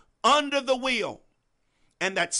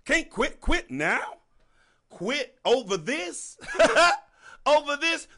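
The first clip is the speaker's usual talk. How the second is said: laughing disbelief; 6 semitones higher, 3 dB louder than usual. Acted. Mocking quitting over small trouble.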